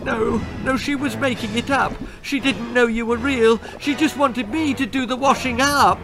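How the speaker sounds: put-on high, anxious child's protest; pleading. A narrator's reading. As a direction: explain desperately in a high girl's voice. Girl pleading with the skeleton.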